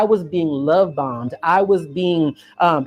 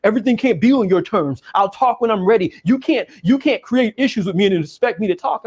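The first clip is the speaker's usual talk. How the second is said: put-on quoting boyfriend; 2 semitones higher than usual.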